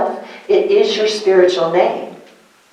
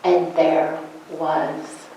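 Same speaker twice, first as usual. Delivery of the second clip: slow solemn Bible reading; scripture reading; slower than usual. Acted. Pastor reading Genesis to the congregation, solemn and slow. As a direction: read it like holy scripture.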